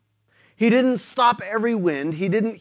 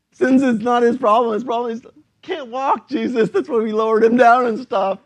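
exasperated friends; 3 dB louder than usual. Retold or imitated. Friends retort to Jesus.

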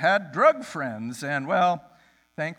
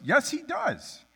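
1 insistent; 11 semitones higher, slower than usual. Retold or imitated. Drunk guy insisting.

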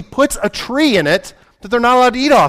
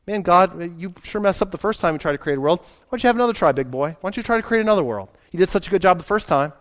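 sneering devils; 4 dB quieter, faster than usual. Retold or imitated. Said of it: "the devils thought about that".

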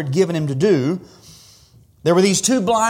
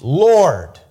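louder, drawn-out mild call; retold cry out; 5 dB louder than usual. Blind men call to passing Jesus, a mild cry. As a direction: call out to the Lord, restrained. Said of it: "they cried out".

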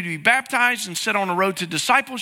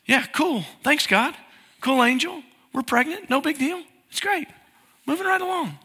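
mock nonchalant; 5 semitones higher than usual. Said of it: "Am I like".

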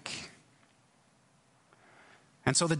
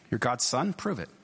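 prove-it challenge; 2 semitones lower than usual. Retold or imitated. The devil testing Jesus in the wilderness, mock prove-it challenge. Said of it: "this is a prove it question".

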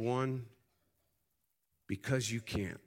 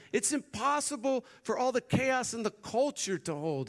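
laughing angel; 12 semitones higher, 4 dB louder than usual. Acted. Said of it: "he's like".

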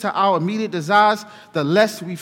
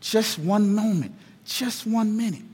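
calm reassurance; 5 dB quieter than usual. Acted. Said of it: "just calmly saying".

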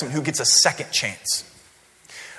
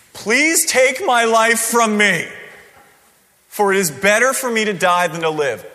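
melodramatic plea; 3 semitones higher, 3 dB louder than usual. Retold or imitated. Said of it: "the most ridiculous statement ever".

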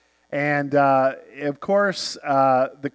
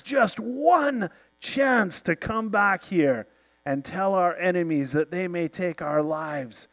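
inspirational speech. Retold or imitated. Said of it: "incredible inspirational words".

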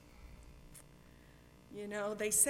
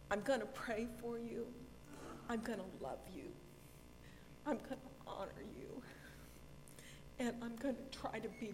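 snotty crying. Real, not acted. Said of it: "I'm ugly crying".

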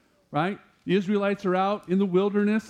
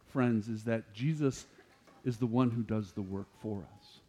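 soft tender point; 7 semitones lower, 7 dB quieter than usual. Real, not acted. Pastor softens for key point.

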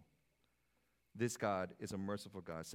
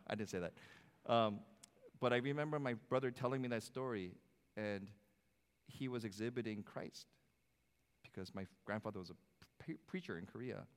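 ordinary talk, nothing marked

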